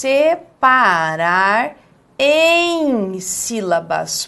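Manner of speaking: "Separar em sílabas" stretched very slowly, long "em"; emphatic, drawn out. Shown as a demonstration. Teacher highlights a key rule for the class, very slow emphasis. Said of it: "vou destacar uma coisa agora importante".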